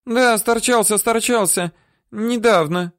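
put-on high, whiny old-woman voice; woman whining denials at her captor; whimpering. Woman answering.

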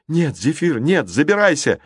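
high, urgent cry of protest; desperate plea. A narrator's reading. Boy begs giant to climb in, desperate high cry. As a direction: plead with your friend at high pitch.

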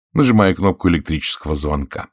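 usual speaking voice

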